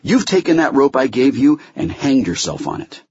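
stern rebuke. Acted. Judge reprimands Holloway over the facts, in stern rebuke. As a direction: lay down the law, exasperated. Judge berates lawyer in hearing.

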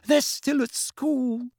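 high, slow protest. Acted. Mother arguing with her husband, protesting. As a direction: plead it, pitched right up.

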